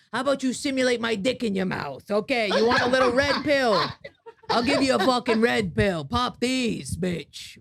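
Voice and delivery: brash mocking movie exec voice; crude studio exec. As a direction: sneer it like a sleazy producer. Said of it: "Miramax would have been like".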